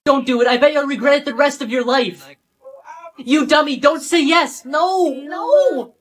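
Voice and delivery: loud, high pleading at the screen; agitated warning shouts. Acted. Shouts at own wedding video, agitated warning.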